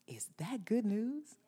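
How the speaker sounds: slow hushed question; whisper. Real, not acted. Pastor whispering the question to the congregation. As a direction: whisper it like a secret.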